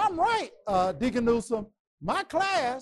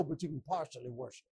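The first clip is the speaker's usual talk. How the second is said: 1 sly concession; 5 semitones lower, 11 dB quieter, faster than usual. Acted. Pharaoh bargaining with Moses.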